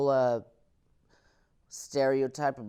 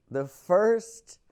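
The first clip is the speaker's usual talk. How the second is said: put-on Mexican accent; 9 semitones higher, 11 dB louder than usual. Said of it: "I gotta do the accent".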